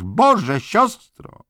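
very high, loud cry of horror; screaming. A narrator's reading. Doctor screaming for the nurse after a horrific discovery, panicked. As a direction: call out in shocked panic. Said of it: "wrzeszczał lekarz".

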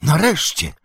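high cry of relief; exclaiming. A narrator's reading. Old Cotton welcomes the long-awaited rising, exclaiming. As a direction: burst out with it, pitch up. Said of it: "zawołał Koton".

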